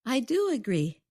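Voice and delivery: "do" lifted and stressed in agreement. Shown as a demonstration. Co-host answers host's question whether she agrees, stress on "do". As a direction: lean firmly on "do".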